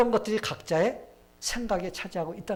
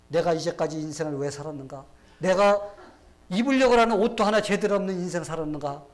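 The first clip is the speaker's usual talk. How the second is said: mock lament; 7 dB louder than usual. Man lamenting missing clothes.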